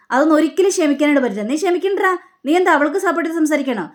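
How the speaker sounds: angry retort. Acted. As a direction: fire it back quickly and sharply. Mother snaps back in quarrel.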